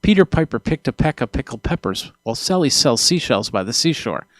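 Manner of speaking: popping plosives, spoken straight into the microphone; straight into the mic. Shown as a demonstration. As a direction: aim the P's right at the capsule and let them pop. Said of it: "So if I go like this".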